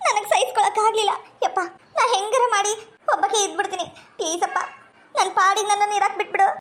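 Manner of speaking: pleading with her father through sobs; words catching on little sobs; acted crying, begging to be left alone; tearful daughter. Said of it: "ಯಾಕವ್ವ ಮಗಳ ಹಿಂಗ್ ಅಳಕುಂತಿ?".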